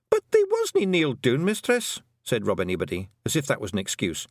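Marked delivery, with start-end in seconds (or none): 0.1-2.0 high, rough Scottish little man murmuring in awe; a wee Scots Feegle marvelling at writing. A narrator's reading. Feegles watching Tiffany write, awed Scots murmur. Rob Anybody protests.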